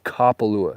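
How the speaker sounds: "Kapalua" as a cop would bark "cop, a lua", kah-pah-LOO-ah; "Kapalua" with open Hawaiian a's, firm and even; like a cop arresting you. Shown as a demonstration. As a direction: say "Kapalua" like an officer stopping you. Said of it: "a cop getting ready to arrest you".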